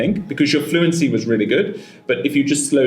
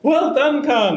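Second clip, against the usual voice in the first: high, elated congratulations; gleeful, high-pitched well-done; delighted praise; 12 semitones higher, slower than usual. Real, not acted. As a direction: cheer the student with a laugh in the voice. Examiner keeps congratulating the candidate.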